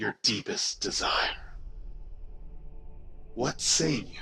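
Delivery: strong, chilling, sincere feminine voice. A voice the players each instinctively hear addresses them: strong, chilling, sincere feminine voice. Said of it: "You each instinctively hear a voice, strong, feminine, chilling, yet sincere. / You each instinctively hear a voice, strong, feminine, chilling, yet sincere. / feminine, / strong, feminine, chilling".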